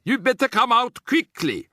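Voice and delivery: high, loud urging call. A narrator's reading. Voice below urging someone to come out. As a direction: call up to them.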